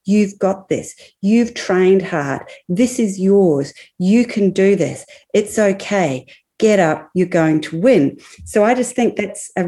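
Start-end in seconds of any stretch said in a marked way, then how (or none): 0.1-8.2 supportive inner voice. Shown as a demonstration. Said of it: "Her inner narrative voice was obviously saying".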